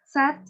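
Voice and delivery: Sat with a wide open A; model word. Shown as a demonstration. Teacher models Sat for the class, mouth wide open. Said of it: "cô sẽ đọc là sat".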